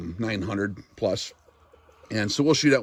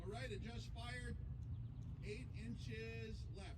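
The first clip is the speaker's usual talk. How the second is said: calm radio call for fire; 13 semitones higher, 24 dB quieter, slower than usual. Real, not acted. Spotter calling corrections to shooter.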